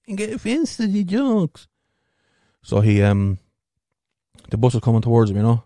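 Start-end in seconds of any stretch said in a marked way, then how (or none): 0.1-1.7 squeaky high put-on voice; mock the hecklers in a high voice; high mock impediment voice. Mocking voice in aside.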